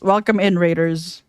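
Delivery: talking while eating; words round a mouthful; chewing noisily. Real, not acted. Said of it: "I'm sorry, I'm eating".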